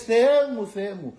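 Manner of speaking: loud anguished cry, fading at the end. Retold or imitated. Christ on the cross crying out to God, loud. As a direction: call out to God in agony. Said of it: "Έτσι φώναξε ο Χριστός".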